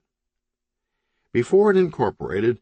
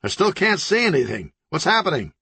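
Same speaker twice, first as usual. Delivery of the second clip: higher, fretful blind ninja; anxious ninja; 8 semitones higher, faster than usual. Acted. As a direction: still lost and getting worried. Ninja still blind, more anxious.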